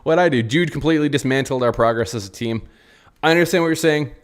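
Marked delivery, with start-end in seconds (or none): 0.0-0.4 high, innocent squeak on me; mock innocent Carlo. Coach pleads innocence to the fans, mock innocent. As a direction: play wounded innocence. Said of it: "Carlo's like".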